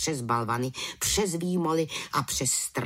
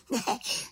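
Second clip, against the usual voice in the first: high little giggle; 13 semitones higher than usual. Acted. Witch laughs in shop.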